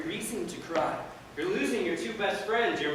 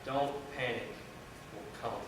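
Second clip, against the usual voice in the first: low, soft reassurance; calm him down quietly; placating; 12 semitones lower, 13 dB quieter, faster than usual. Acted. Friend placates the panicking groom.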